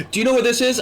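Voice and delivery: high mock customer voice; imitated inquiring customer; customer's question. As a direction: ask the clerk, pitched right up. Acted customer asking staff.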